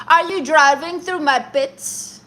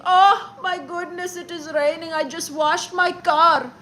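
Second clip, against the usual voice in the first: mock crying man. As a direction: imitate a grown man whimpering about his wet car. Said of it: "crying, upset because it is raining".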